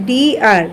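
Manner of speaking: ডি আর split, "dee" then "ar"; I-vowel pronunciation. Shown as a demonstration. Teacher demonstrates the i sound, ডি আর in two parts. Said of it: "উচ্চারণ হচ্ছে রস্বীকারের মতো".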